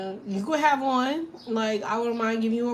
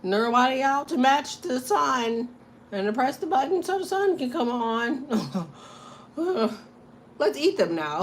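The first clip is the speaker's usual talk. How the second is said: vampires; 2 semitones higher than usual. Acted. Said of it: "they're gonna be like".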